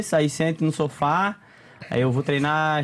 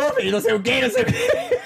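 imitating his own pushy questioning. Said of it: "Eu fui fazer uma pergunta com ele".

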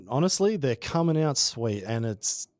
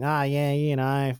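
put-on Australian accent; 4 semitones higher than usual. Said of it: "I had this full Australian accent".

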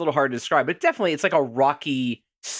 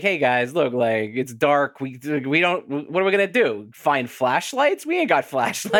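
lazy detective. Retold or imitated. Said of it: "he's basically like".

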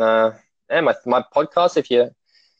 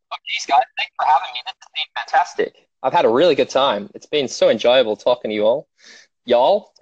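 put-on American accent; Australian imitating an American saying thanks. Shown as a demonstration. Guest thanking the hosts on request in an American accent. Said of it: "to do an American accent".

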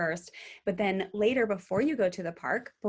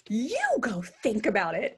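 child mimicking parent. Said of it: "she started to say to us".

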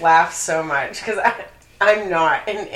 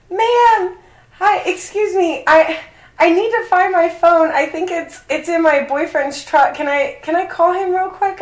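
much higher, louder mock-polite lady voice; imitating the neighbor lady; 9 semitones higher, 4 dB louder than usual. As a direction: put on the frantic neighbor, pitched way up. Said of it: "and she's like".

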